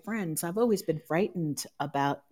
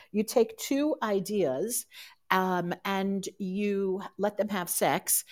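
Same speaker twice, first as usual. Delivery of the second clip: slow quoting; 3 semitones higher than usual. Retold or imitated. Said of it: "a quote that said".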